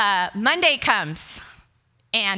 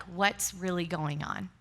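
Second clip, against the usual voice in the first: soft, slow gentle question; quiet, unhurried concern; empathetic and loving; 3 semitones lower, 7 dB quieter, slower than usual. Retold or imitated. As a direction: probe kindly, imitating a caring husband. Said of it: "so empathetic and loving".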